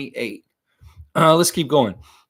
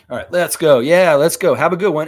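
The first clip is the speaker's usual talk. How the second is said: louder, upbeat call-out; cheerful send-off; 4 semitones higher, 8 dB louder than usual. Real, not acted. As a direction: cheer the animal out the door. Sending the animal off outside.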